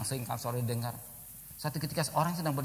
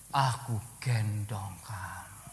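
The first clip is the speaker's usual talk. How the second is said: gentle divine voice; 2 semitones lower, much slower than usual. Acted. God's answer.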